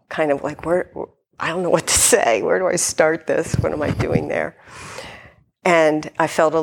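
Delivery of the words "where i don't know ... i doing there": stammering. Retold or imitated. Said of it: "I remember I was stammering".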